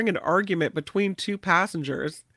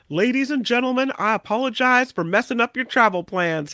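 apologizing man; 5 semitones higher than usual. Retold or imitated. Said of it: "he said".

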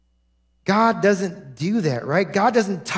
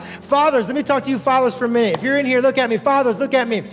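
raised-pitch sermon appeal; emphatic preaching; 7 semitones higher than usual. Real, not acted. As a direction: press the point on the congregation.

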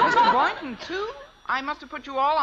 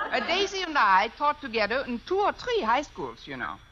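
put-on German accent. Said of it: "If I can do a decent German accent".

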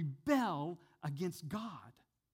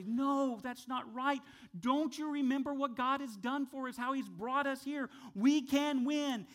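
bold Joshua and Caleb; 7 semitones higher, 3 dB louder than usual. Retold or imitated. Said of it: "Joshua and Caleb stand up and say".

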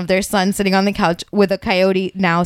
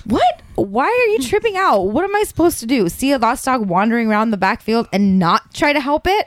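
mock indignant. Wife acting defensive in read-aloud text.

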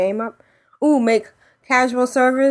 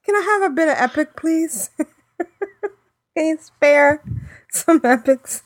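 higher-pitched playful begging; pleading beggar; 6 semitones higher than usual. Pretend. Casual player begging raiders for epics, mock pleading. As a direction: beg like an urchin in the gutter, hammed-up.

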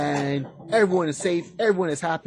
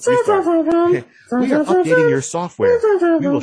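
computer announcement voice; 8 dB louder than usual. Pretend.

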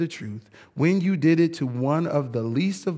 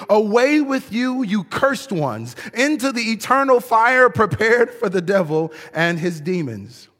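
stern king; 4 semitones higher than usual. Acted. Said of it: "the king will turn".

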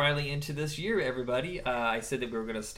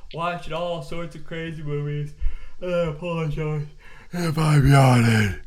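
sultry voice; 8 dB louder than usual. Pretend. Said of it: "That's also my sultry voice".

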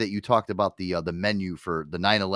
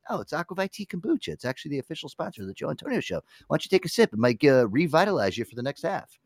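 higher, fast, cheesy sponsor plug; mock ad pitch; 6 semitones higher than usual. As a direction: sell the drink like a TV commercial. Host pitching sponsor drink in skit.

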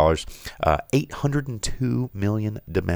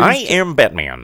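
Batman voice; 7 semitones higher, 4 dB louder, slower than usual. Pretend. Guessing Pete Holmes Batman voice.

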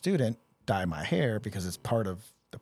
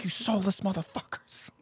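much higher, incredulous sergeant rant; outraged first sergeant; 10 semitones higher than usual. Retold or imitated. First sergeant spotting another ginger soldier, much higher outraged disbelief. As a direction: play the fed-up sergeant, pitched way up.

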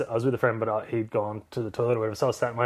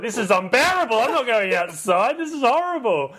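higher, louder moaning about the heat; mock whining complaint; 11 semitones higher, 5 dB louder than usual. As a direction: whine like the heat is unbearable. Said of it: "I was like".

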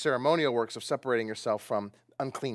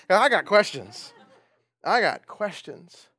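laughing; 2 semitones higher, 6 dB louder than usual. Real, not acted. Laughing at own joke.

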